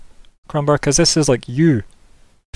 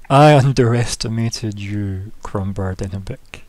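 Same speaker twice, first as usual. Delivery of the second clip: lightly voiced, slow, measured governor; governor character; 2 semitones lower, slower than usual. Governor concedes to Crombar, slow and measured. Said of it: "And she's like".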